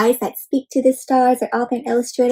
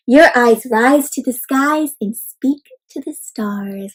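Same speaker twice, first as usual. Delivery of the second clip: slow, gentle father's words; tender father; slower than usual. Acted. Teacher reads the father's words to his son, slowly and tenderly. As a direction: say it slowly and lovingly like a proud dad. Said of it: "Baba stood me in front of a mirror and said".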